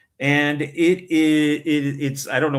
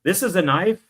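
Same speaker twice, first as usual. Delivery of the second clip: hammed-up, loud, raised-pitch Aussie-style accent, passed off as Canadian; mock thick accent; 4 semitones higher, 6 dB louder than usual. Joking about hard-to-understand movie accents, mock thick Australian-sounding accent. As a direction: bark out a bad Australian accent as an imitation. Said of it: "they got really thick Canadian accents".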